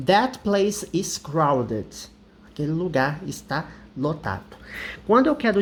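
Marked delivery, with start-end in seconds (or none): 0.1-2.1 slow English example, said carefully; teacher modeling "crowded" in a sentence. Shown as a demonstration. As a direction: read it slowly for students. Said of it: "Eu falo".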